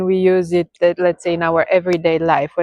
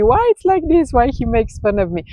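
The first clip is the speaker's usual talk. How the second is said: a hint of a puzzled, hurt student, starting high then rushing; lightly voiced student asking the teacher why her husband mocks her; upset student; 4 semitones higher, much faster than usual. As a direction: ask why in mild complaint. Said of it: "And she told me".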